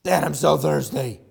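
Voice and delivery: mock whining kid; thirsty child. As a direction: whine like a parched child in the car. Child voiced again, more urgent.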